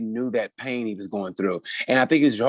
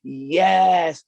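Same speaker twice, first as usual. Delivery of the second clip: cheering crowd; 6 semitones higher, 3 dB louder than usual. Pretend. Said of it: "the trans community be like".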